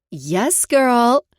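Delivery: high excited squeal. Acted. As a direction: squeal it with delight. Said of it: "she squealed".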